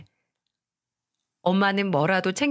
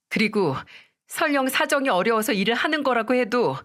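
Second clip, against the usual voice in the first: wife's rising anger; 3 semitones higher than usual. Acted. Wife fights husband.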